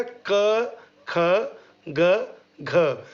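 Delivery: क ख ग घ sounded slowly from the throat; throat sounds demo. Shown as a demonstration. Teacher demonstrating throat consonants for students to copy. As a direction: articulate क ख ग घ one by one from the throat. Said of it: "बोल के देखिएगा".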